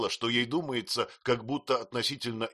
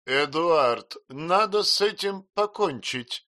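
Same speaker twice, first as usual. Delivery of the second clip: higher, louder demand; indignant declaration; 8 semitones higher, 6 dB louder, slower than usual. A narrator's reading. Miss Murdstone to her brother, indignant. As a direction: lay down the law. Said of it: "заявила мисс Мордстон".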